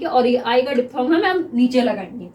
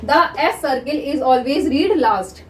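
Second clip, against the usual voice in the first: very slow, word by word; slow dictation; much slower than usual. Shown as a demonstration. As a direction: dictate it slowly for notes. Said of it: "अब देखिए".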